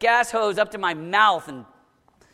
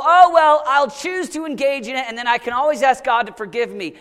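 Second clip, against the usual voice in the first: light shrug of a voice, louder; mock casual; 2 semitones higher, 3 dB louder than usual. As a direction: toss it off carelessly. Voicing a casual sinner.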